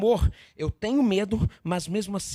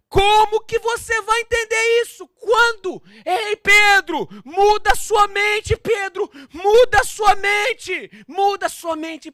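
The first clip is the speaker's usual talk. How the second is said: high, loud, drawn-out exhortation; shouted rebuke; 12 semitones higher, 12 dB louder, slower than usual. Acted. Jesus telling Peter to change his mind, impassioned shout. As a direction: shout it as an urgent plea.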